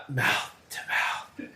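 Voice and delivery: half-hearted soft whisper; barely voiced, slow and perfunctory. Real, not acted. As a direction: toss it off under your breath. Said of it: "That was perfunctory".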